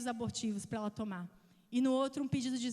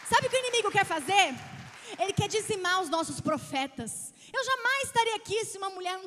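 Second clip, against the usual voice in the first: loud, high preaching voice; 6 semitones higher, 7 dB louder than usual. Acted. Preacher booming to the congregation, fervent. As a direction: preach it out to the church.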